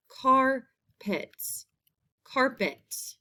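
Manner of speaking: "car... pet", split with a pause; syllable by syllable. Shown as a demonstration. Teacher showing the first syllable, "Carpet" split in two. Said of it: "in the first syllable".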